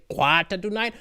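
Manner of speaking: imitating a teacher's Sri Lankan accent, QUARTER with an open "ah". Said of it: "We used to do his accent".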